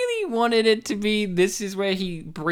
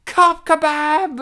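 slow, loud, higher movie-title call; mock dramatic title; 8 semitones higher, 5 dB louder, much slower than usual. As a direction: announce it like a blockbuster.

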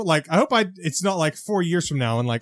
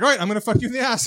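laughing mock line; 5 semitones higher, faster than usual. Parody of the boyfriend, laughing.

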